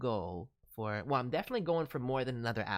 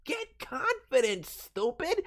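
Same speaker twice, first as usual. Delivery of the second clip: 1 playful tough love; 10 semitones higher, 7 dB louder, slower than usual. Pretend. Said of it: "big hug and be like".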